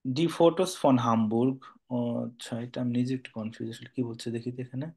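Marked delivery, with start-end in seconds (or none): 0.0-1.6 each word laid out slowly for a learner; slow model reading. Shown as a demonstration. Teacher to student, modelling the German line slowly. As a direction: read it slowly so the student can copy. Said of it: "teacher models the sentence".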